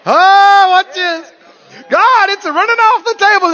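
high, loud alarmed cry; alarmed exclaim. Retold or imitated. Believer crying out to God about the overflow. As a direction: shout out at the spill. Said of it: "And you're going".

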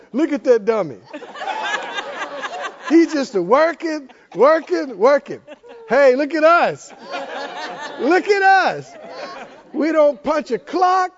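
a smug raven teasing a worker; cocky raven. Acted. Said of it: "One of them said".

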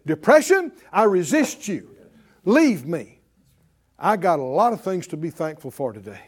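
a firm, loud order aimed at depression; resisting depression. Pretend. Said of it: "open up your mouth and say".

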